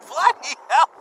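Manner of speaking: loud, high startled outburst; surprised exclamation. Real, not acted. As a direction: blurt it out, shocked. Shocked by another donation.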